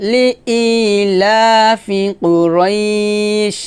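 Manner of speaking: slow tuneful recitation drawing out each word; Quran recitation. Shown as a demonstration. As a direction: chant it slowly with a long held vowel. Recites the verse again.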